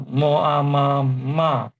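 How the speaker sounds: ma falling sharply; fourth tone ma. Shown as a demonstration. Teacher showing ma for scold, falling. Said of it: "the fourth tone is".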